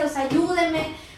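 ayúdeme arrastrado y lento; pídelo despacio, estirando ayúdeme; súplica lenta. Retold or imitated. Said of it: "Ayúdeme, ayúdame". (súplica lenta y alargada)

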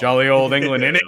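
loud, hammed-up Cockney English accent; jokey fake English accent; mock English accent. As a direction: play a cheeky Londoner. American guest mocks English.

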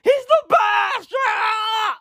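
very high, drawn-out mock scream; imitating screaming fan. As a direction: scream it like a wildly overexcited kid. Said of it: "that kid was out there screaming".

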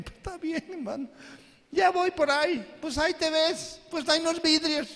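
mock amused neighbor; mocking listener. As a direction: laugh him off. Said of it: "qué cree que le dice la gente".

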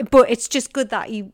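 ordinary talk, nothing marked

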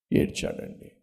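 breathy whisper of the word; soft whispered echo. Shown as a demonstration. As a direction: drop to a hushed whisper. Repeats that Ezra wept.

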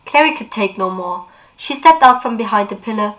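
lively read-aloud of a novel; expressive book reading; story narration. Acted. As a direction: read the scene like an audiobook. Reads novel passage aloud.

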